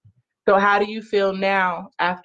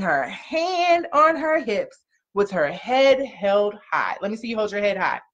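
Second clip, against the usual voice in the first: gentle storybook reading; reading to children. Acted. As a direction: read it like a bedtime picture book. Mother reads picture book aloud.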